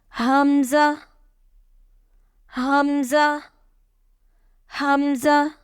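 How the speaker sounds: "hamza" said short, with no drawn-out vowel; short unstretched hamza. Shown as a demonstration. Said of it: "read alif and hamza without stretching".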